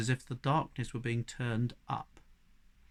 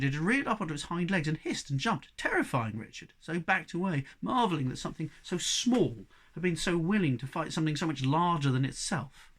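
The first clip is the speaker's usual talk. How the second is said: plain reading voice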